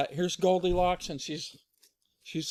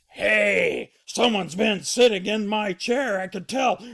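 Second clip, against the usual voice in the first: loud, raised father bear voice; Papa Bear indignant; 4 semitones higher, 7 dB louder than usual. Acted. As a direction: boom out the complaint. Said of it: "and he goes".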